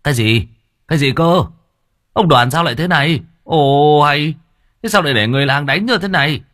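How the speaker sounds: high, loud astonished questioning; aghast, voice jumping up; shocked disbelief. Acted. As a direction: exclaim in rising alarm. Chief shocked at the beaten man.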